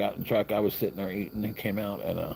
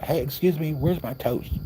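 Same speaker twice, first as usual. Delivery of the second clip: put-on impatient old man; 10 semitones higher than usual. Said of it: "And he's like".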